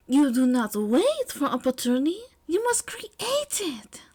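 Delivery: declared, ending in a high hushed whisper; grand declaration. Acted. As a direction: reveal the secret dramatically. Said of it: "Aoyama declared".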